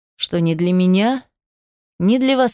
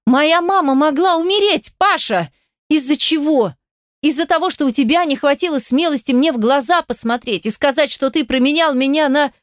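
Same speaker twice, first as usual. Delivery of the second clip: hysterical shout; 7 semitones higher than usual. A narrator's reading. Heroine hurls the accusation at Pasha, hysterical. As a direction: rage pouring out at him. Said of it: "закричала я в истерике".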